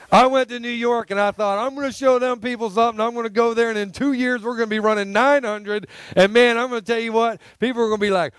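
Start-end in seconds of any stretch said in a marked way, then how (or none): 1.6-8.3 higher, mock-boastful former self; retold cockiness. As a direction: brag eagerly, making fun of your old self. Retelling his own past cockiness.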